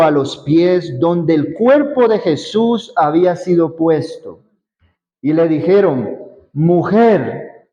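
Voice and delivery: measured Bible reading voice; reading John aloud to the group; scripture reading. Acted. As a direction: read the passage to the congregation.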